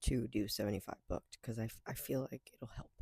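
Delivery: soft hushed voice; whispering. Real, not acted. Talking softly, hushed.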